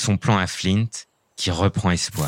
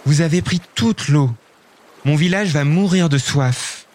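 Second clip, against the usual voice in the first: indignant cry; 7 semitones higher than usual. Acted. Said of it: "Lison s'écrie".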